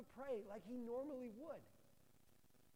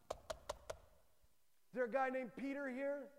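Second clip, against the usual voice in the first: slow caller at the gate; 3 semitones higher, 5 dB louder, much slower than usual. Retold or imitated. Men at the gate calling.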